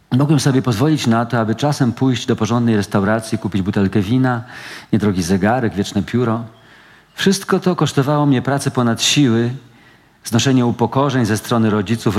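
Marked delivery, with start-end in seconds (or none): none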